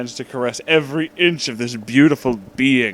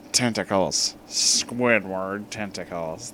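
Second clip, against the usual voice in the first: Squidward voice; 4 semitones lower, 5 dB quieter, slower than usual. Acted. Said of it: "my best Squidward impression".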